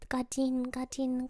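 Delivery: ordinary delivery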